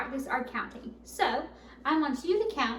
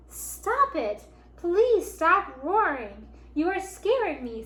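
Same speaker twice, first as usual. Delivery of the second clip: higher, urgent plea; scared little voice; 5 semitones higher, 5 dB louder, slower than usual. A narrator's reading. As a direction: beg for the roaring to stop. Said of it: "heard a little voice".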